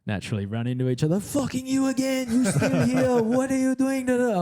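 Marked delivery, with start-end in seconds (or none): 1.2-4.4 high, incredulous mimic of a rival; high cheeky disbelief; mock Jeremy. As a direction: squeal it like he can't believe it. Imitating Jeremy's surprised greeting.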